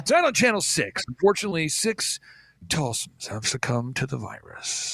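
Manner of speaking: mock grief for the evening news; hammed-up sad news voice; fake sentimental anchor. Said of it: "They all do that fake sentimental voice".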